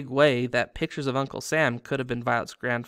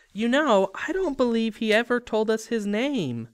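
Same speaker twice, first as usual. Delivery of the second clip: much higher and louder, for show; loud, pointed remark; said loudly; 10 semitones higher, 4 dB louder than usual. A narrator's reading. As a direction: announce it for the agent to hear. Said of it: "Miss Dexter said loudly".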